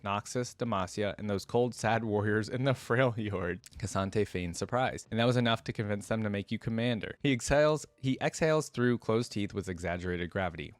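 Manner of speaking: measured storytelling read; steady audiobook narration of a fantasy tale; story narration. A narrator's reading. Reads the story aloud.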